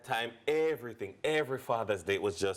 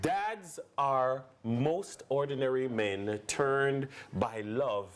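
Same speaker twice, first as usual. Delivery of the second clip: slow, solemn recitation; slow quote reading; slower than usual. Acted. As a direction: read it like an inspiring poem, unhurried. Reads a quote slowly.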